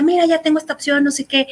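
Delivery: mildly eager, hurrying through the news; retold excitement. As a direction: reenact being keen to share an option. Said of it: "yo me emocionaba y decía".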